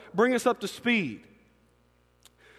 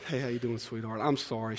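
tender aside; 11 semitones lower, 9 dB quieter than usual. Real, not acted. Speaks to his wife aside.

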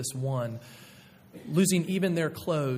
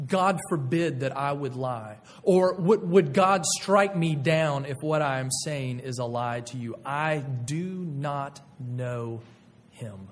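vehement oath; slower than usual. Retold or imitated. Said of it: "Peter's giving a response that would have been something like this".

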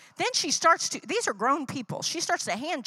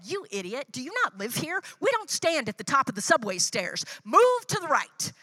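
annoyed inner rant. Retold or imitated. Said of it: "I could think in my head".

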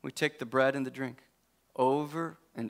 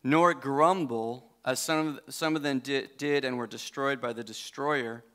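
scripture reading; 4 semitones lower than usual. Real, not acted. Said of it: "Verse ten".

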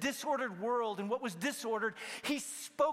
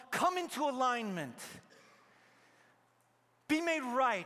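firm loud command; 4 semitones higher, 4 dB louder than usual. Retold or imitated. Preacher calling out Jesus' command over the chaos. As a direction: ring it out, a little louder.

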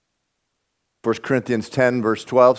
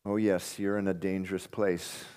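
much softer, lowered, earnest; soft warning; 5 semitones lower, 12 dB quieter than usual. Real, not acted. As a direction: lean in and warn quietly. Pastor warning gently after quotes.

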